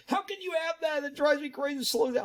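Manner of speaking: high mocking whine of a complainer; upset viewer. Host mimics viewers upset about his many tabs, high mock-upset voice.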